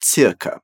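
circa said as TSIR-ka, German ts and rolled r; circa, crisp ts at the start. Shown as a demonstration. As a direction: model the German circa slowly. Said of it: "Auf Deutsch gibt es auch".

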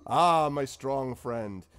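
slow fond greeting. Acted. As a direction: savour the words. Zephyros greeting Urash.

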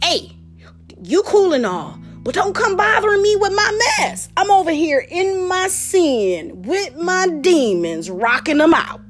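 a touch of defiant brush-off; lightly voiced sinner. Sinner telling a believer to back off, mildly defiant. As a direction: wave someone off, pitch jumping up. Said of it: "But they like".

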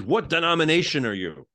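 imitating an exasperated questioner, a little emphatic; mildly frustrated. Man demanding to know his church, mildly frustrated. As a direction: press the question with mock frustration. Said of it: "He gets all frustrated".

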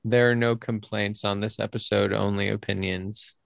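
serious flat robot voice. Pretend. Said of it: "in a very serious, like, robot voice".

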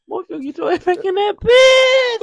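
very high, loud scolding mother; hammed-up mom yelling. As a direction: yell like an angry mom. Mom voiced in story.

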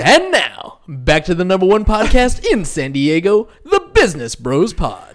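big movie trailer narrator. Shown as a demonstration. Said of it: "your movie voice to close it".

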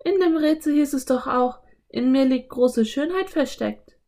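put-on high girl character voice; Anne. A narrator's reading. Anne recalls the riddle for Philipp, high character voice.

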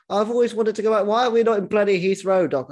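bad attempt at an Australian accent. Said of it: "I can't do an Australian accent".

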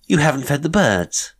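loud, high reminder across the garden; sudden calling out. A narrator's reading. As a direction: call it out as if just remembered. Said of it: "she called suddenly, as if remembering".

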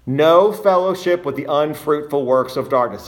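"No" and "unfruitful" emphasised within the phrase; stress on no, unfruitful. Shown as a demonstration. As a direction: lean on "No", then on "unfruitful". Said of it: "Notice the emphasis on the word".

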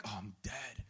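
very low, hushed dread; mock doom. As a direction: sink into resigned mock dread. Acting someone caught and doomed.

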